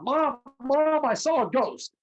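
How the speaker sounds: put-on high, loud excited child calling for mom; a little boy bursting in to tell mom; excited kid. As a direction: kid running in yelling about a ghost.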